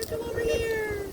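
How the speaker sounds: high, loud call across the yard. Real, not acted. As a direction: shout to someone far off. Calling neighbor across yard.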